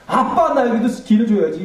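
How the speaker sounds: high, loud cry stressing '아빠'; retold scream. Grieving daughter screaming at her father's burial. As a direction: cry out at the graveside. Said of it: "막 그렇게 소리 지르더라고요".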